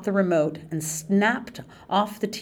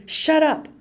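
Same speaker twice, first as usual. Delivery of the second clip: a much higher, louder furious shout; 10 semitones higher, 5 dB louder than usual. Acted. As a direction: shout her down in anger. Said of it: "Darius shouted".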